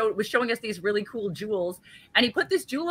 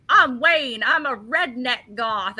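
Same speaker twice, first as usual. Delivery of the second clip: slow, lightly drawled Southern redneck voice; a deliberately bad, half-hearted Southern accent; 2 semitones higher, much slower than usual. Telling friends how the host greeted her, in a mock redneck accent. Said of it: "I'm gonna do a bad accent".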